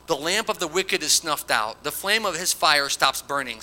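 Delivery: emphatic, declaimed Bible verse; scripture reading. Acted. Preacher reads Bildad condemning the wicked, emphatic scripture reading. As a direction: proclaim the verse to the congregation.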